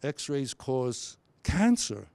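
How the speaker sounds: drawn out slowly, landing on "cancer"; very slow, stress on cancer. Shown as a demonstration. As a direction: take it slow and drop on "cancer". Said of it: "Or I could say".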